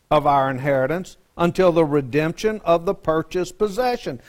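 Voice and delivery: preacher reading the verse aloud to the class, measured; scripture reading. Acted. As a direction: read the verse out to the congregation, deliberately.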